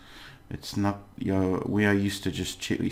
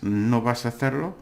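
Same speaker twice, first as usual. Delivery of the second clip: "no vas a hacerlo" rising on "hacerlo"; negative question; 4 semitones higher, 4 dB louder than usual. Shown as a demonstration. Teacher models the negative question for learners, rising tune. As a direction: lift the end of "no vas a hacerlo" to ask it. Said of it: "the question".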